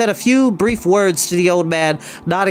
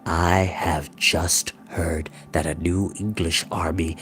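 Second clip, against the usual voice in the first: quivering controlled anger; 10 semitones lower, 7 dB quieter than usual. A narrator's reading. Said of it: "His voice rose a little, quivering with control".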